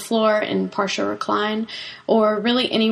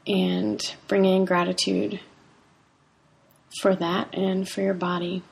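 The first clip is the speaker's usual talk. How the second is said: guided meditation. Acted. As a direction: ease them into calm breathing. Leads a breathing meditation.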